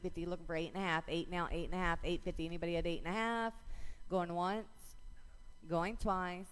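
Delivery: rapid rhythmic bid calling; auctioneer. Real, not acted. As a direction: auction chant, numbers rolling. Auction chant calling bids.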